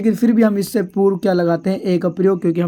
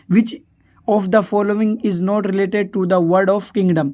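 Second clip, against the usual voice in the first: slow reading; much slower than usual. Shown as a demonstration. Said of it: "reading the question aloud".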